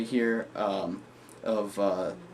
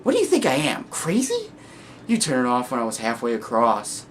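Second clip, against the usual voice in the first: indignant madman; 2 semitones higher, 4 dB louder than usual. Acted. Second guy refusing the flashlight, mock indignant. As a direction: squeak up on the question, then settle.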